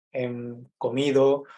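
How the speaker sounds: ordinary talk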